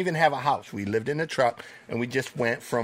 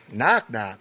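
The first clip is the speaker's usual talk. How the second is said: "Knock, knock?" repeated lower, flat and baffled; puzzled echo; 3 semitones lower than usual. Retold or imitated. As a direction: say "Knock, knock?" back as if it's nonsense. Puzzled kid replies to joke.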